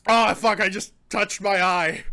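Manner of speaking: loud pained cursing; pained outburst. Real, not acted. Reviewer just touched own eye, loud pained outburst. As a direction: cry out at a sudden sting.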